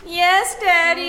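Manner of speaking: put-on mildly whiny child's reply; whining. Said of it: "You're whining again".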